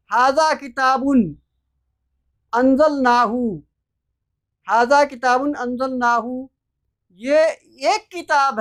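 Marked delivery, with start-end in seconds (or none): 0.1-1.2 हाजा किताबुन recited with the Arabic sounds; Quranic recitation. Shown as a demonstration. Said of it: "जैसे कुरान कहता है कि". 2.5-6.5 हाजा किताबुन recited with the Arabic sounds; Quranic recitation. Shown as a demonstration. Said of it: "जैसे कुरान कहता है कि".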